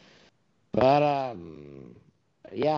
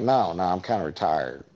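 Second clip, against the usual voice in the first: low, reluctant brush-off; lightly voiced lower reply, declining; Mike Myers; 6 semitones lower than usual. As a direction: play a retired star turning it down, low. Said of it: "And he's like".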